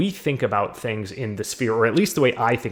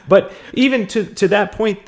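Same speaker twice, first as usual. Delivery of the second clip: laughing; 11 semitones higher, 7 dB louder than usual. Real, not acted. Laughs while starting her point.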